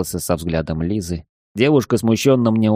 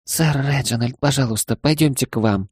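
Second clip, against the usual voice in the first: pleading; 5 semitones higher than usual. Acted. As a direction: beg him gently, a touch higher. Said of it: "взмолилась она".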